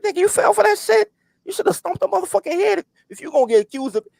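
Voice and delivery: high, incredulous shout; reenacting yelling at a crying friend; wild yell. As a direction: bark it at your heartbroken friend. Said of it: "bro, I was wilding".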